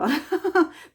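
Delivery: high, loud laugh; real laugh. Real, not acted. Host admitting no interest in husband's chores, loud laugh. Laughs about not caring.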